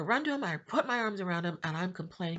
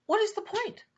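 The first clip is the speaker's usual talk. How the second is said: despairing plea; 14 semitones higher than usual. Retold or imitated. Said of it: "and I'm thinking".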